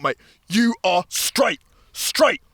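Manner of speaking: slow, emphatic insistence; imitated talking-to. Man giving him a talk-to, mock-firm insistence. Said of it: "like, a talk to".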